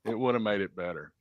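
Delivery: soft, low aside; quiet insistence. Real, not acted. Host sticking to his opinion on corn, quiet aside. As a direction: repeat it under your breath, sticking to it. Repeats it after being objected to.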